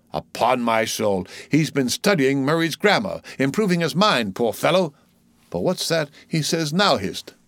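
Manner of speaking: animated sailor's running commentary, theatrical; wry onlooking sailor. Acted. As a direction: comment aside on each newcomer, pitch often lifting. Voices Stubb commenting on Pip.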